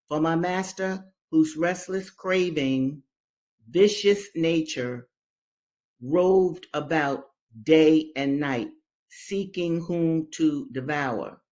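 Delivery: slow, weighty reading of a slave narrative; dramatic reading. Acted. Teacher reading Linda's story to class, slow and grave. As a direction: let each word land, slow and grave.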